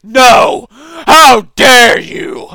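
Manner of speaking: loud, slow, hammed-up scandalized shout; over-the-top offended cop boss; mock outrage. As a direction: play a pompous official, aghast. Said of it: "Whoever's in charge is like".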